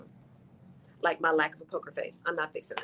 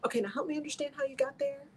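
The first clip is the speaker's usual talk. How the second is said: patient reply; 6 semitones higher, 4 dB quieter, faster than usual. Retold or imitated. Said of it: "my words will say".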